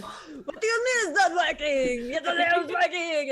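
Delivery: put-on loud, high thick French accent; an indignant Frenchman, French accent pushed up high. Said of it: "some thick French, French accents".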